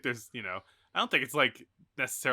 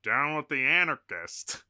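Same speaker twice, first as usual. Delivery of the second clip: mildly snide, louder call-out; snide heckle; 3 semitones higher, 5 dB louder than usual. Acted. Man in the corner turning the crowd on a speaker, snide. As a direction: heckle with a touch of sneer. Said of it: "this guy, like, snidely".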